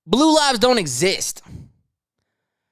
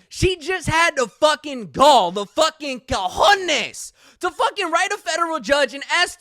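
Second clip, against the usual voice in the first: outraged emphasis; 5 semitones higher than usual. Real, not acted. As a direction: drag it out in disbelief. Outraged rant on the news.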